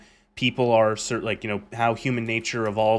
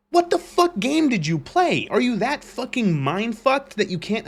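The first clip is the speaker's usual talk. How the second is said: incredulous outburst; 9 semitones higher than usual. Real, not acted. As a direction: shout it in disbelief. Ranting at fans.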